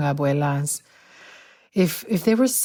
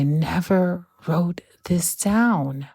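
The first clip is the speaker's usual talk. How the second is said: hushed whisper; slower than usual. Acted. Reflective question quoted aloud.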